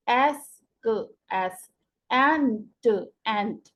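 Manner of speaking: एस and एंट drawn out sound by sound, then blended. Shown as a demonstration. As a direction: spell out the sounds of एस and एंट, then say each whole. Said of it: "इस तरह से इसको पढ़ते हैं".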